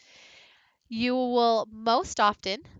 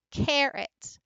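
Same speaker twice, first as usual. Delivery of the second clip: carrot with CAR high, -rot dropped; slowed stress demo; 5 semitones higher than usual. Shown as a demonstration. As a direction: lift CAR, then let -rot fall. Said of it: "hear where my voice drops".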